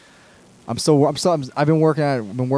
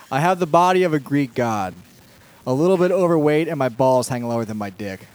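stand-up punchline delivery; 3 semitones higher, 5 dB louder than usual. Shown as a demonstration.

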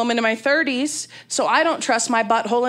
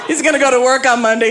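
normal talking voice

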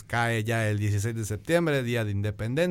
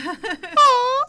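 put-on old hag cackle; 9 dB louder than usual. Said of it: "risa de bruja".

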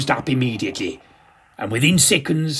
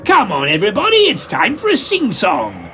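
loud, fast, higher rallying call; cheery shout; 6 semitones higher, 4 dB louder than usual. Acted. Narrator rallying the panto audience, fast cheery shout. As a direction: rouse the whole audience. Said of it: "I shouted".

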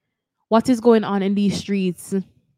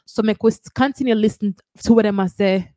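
Jamaican accent; 3 dB louder than usual. Real, not acted. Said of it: "will be done in my Jamaican accent".

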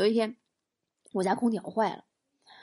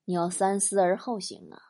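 low, softened brotherly counsel; drinking buddy; 5 semitones lower than usual. Acted. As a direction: advise gravely in a lowered voice. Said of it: "他喝了一小口啤酒说". (压低嗓音劝兄弟)

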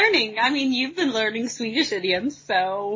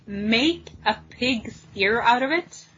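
puzzled echo; slower than usual. Real, not acted. Puzzled by an unfamiliar idiom.

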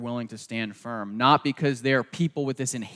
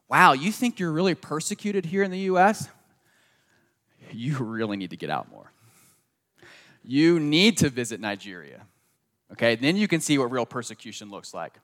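wry retort; 2 semitones higher than usual. Retold or imitated. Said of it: "think about persecution in that way".

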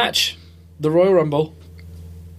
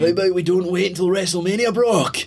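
Scottish accent impression; 4 semitones higher than usual. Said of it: "It's kind of going a wee bit".

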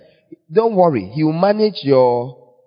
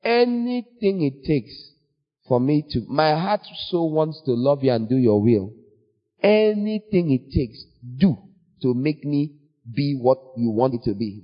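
earnest prayer. Retold or imitated. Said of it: "prayed and said".

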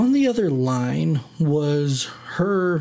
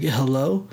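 "Hello?" with a rising question tune; "Hello?" lifted like a question. Retold or imitated. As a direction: answer the phone with "Hello?" rising at the end. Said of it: "in question format".

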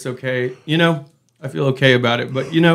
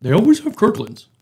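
possessed; 7 semitones higher than usual. Pretend. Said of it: "I was trying to do the Demon Boys".

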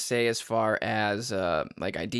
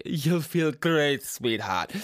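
sultry voice; 2 semitones higher, much slower than usual. Pretend. Sultry mock voice to listeners.

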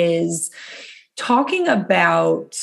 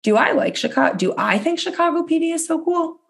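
mock self-questioning; 9 semitones higher than usual. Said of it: "I want you to be like".

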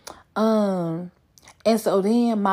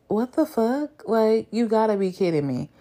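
shocked disbelief; 3 semitones higher than usual. Retold or imitated. Retells her reaction to profile.

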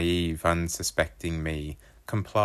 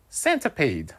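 put-on higher kid voice, grinning; grinning Wolfie; 9 semitones higher than usual. A narrator's reading. Wolfie setting up his knock-knock joke, high and grinning. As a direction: hold back the punchline. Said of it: "Wolfie's grin grew bigger".

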